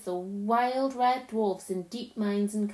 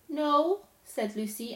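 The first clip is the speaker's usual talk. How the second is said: disbelieving; 5 semitones higher than usual. Acted. Lucy refuses to believe it.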